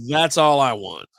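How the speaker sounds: slow, drawn-out retold plea; exasperated plea. Patient pleading to the insurer for medicine, slow and exasperated. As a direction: stretch out every word in exasperation.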